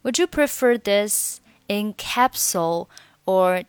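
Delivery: "would you" merged into wood-joo; linked "would you". Shown as a demonstration. Pharmacist's question modelled for learners, "would you" linked. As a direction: run "would you" together with a j sound. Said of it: "Would you连读".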